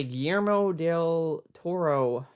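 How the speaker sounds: careful Spanish-style Guillermo del Toro; Spanish pronunciation. Shown as a demonstration. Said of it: "can you tell how white I am".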